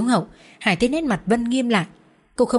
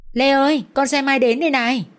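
raised, higher call up the stairs; father calling his daughter down, raised voice; calling upstairs; 5 semitones higher, 3 dB louder than usual. Acted. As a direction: call out to a child on another floor.

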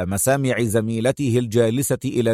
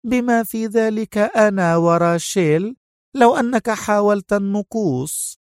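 higher, slow, gloating victory; triumphant gloat; 6 semitones higher than usual. Acted. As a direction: savor beating her enemy. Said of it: "وابتسمت سونيا في ظفر". (بظفر وتشف)

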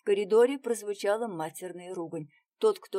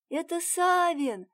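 high, loud, strained shout; crying out as loud as she can; 10 semitones higher, 5 dB louder, slower than usual. A narrator's reading. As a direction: push her voice out to be heard far off. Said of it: "как могла закричала Варенька".

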